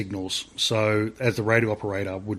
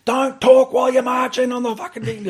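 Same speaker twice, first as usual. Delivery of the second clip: mock shout, much higher and louder; shouted from behind; 12 semitones higher, 5 dB louder than usual. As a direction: bark it at the marching squad. Instructor yells from behind.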